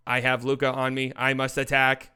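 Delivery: lightly done robot monotone. Acted. Voicing Kawhi Leonard thinking to himself, mild robot voice. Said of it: "It's my robot voice".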